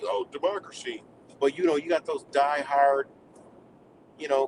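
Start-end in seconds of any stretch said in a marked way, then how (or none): 0.0-1.0 high, breathy-soft sarcastic "Oh, democracy"; mock their starry-eyed belief, up high and soft; mocking MAGA voice. Mocking what MAGA believes, in a high sarcastic voice. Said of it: "they believe".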